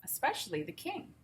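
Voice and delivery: whispered dramatic aside; a hushed storyteller's whisper. Acted. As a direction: breathe it out for effect.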